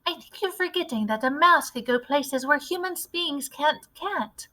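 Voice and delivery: put-on a keen little boy with a clever plan; eager mouse boy. Narrator voices mouse boy.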